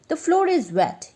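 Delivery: high shouted complaint. A narrator's reading. Merchant shouting at the coolie about the floor. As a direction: snap it out as a shout. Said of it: "he shouted".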